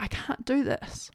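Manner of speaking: hushed and breathless, near tears; a small defeated whisper; whispered despair. Retold or imitated. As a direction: whisper it like you have nothing left. Retelling giving up in labour.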